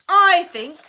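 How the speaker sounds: high, very loud cut-in; hurried interjection. A narrator's reading. Harry hurriedly stepping in for Nick, loud. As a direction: jump in abruptly. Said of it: "said Harry hurriedly".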